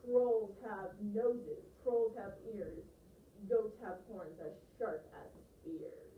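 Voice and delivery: slow loud goat warning that fades; slow, menacing rhyme from the big goat; growling big goat. Acted. The biggest goat warns the Troll, loud and slow. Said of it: "the biggest billy goat gruff growled".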